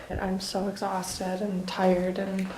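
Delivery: slow, worn-out whisper; exhausted whisper. Real, not acted. Too tired to speak up at night, whispering to viewers. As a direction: let the words fade into breath.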